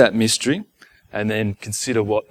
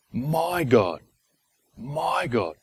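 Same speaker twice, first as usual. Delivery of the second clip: soft, intimate cry to God; personal plea; 7 dB quieter, much slower than usual. Acted. Forsaken man addressing his own God, softly and personally. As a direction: say it quietly, as to someone you know well. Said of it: "this is personal".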